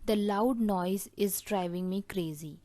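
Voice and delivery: very slow and deliberate, word by word; slow dictation. Shown as a demonstration. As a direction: dictate the phrase slowly to the class. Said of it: "जिसे हम English में बोलेंगे".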